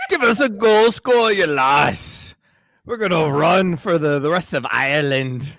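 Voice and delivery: wandering attempt at an Irish accent; mock Irish accent. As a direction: ham up a bad Irish accent, laughing.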